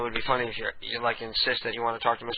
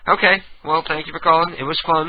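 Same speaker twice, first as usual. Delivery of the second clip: chirpy sign-off; 5 semitones higher, 6 dB louder than usual. Acted. Sign-off host voice.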